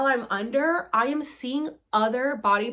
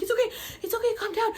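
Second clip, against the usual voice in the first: calming reassurance; 11 semitones higher, much faster than usual. Retold or imitated. Helpers soothing the choking speaker.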